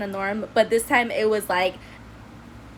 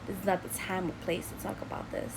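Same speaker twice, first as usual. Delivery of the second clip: imitating stepdad; 10 dB quieter than usual. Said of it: "But my stepdad goes".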